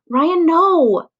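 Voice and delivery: high, loud cry of alarm. Acted. Ben shouting at Ryan to leave the frog, loud alarm. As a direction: stop him before he grabs it.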